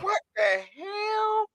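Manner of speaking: very high, drawn-out cry of disbelief; shocked outcry. Real, not acted. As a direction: squeal it slowly in sheer disbelief. Shocked at the child's age.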